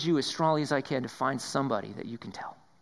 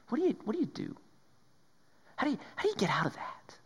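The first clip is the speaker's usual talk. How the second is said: whispered question; 9 semitones higher, 6 dB quieter, faster than usual. Acted. Pleading question to the congregation.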